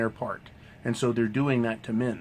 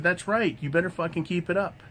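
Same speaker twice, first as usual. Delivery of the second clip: retold approval; 6 semitones higher than usual. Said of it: "I said".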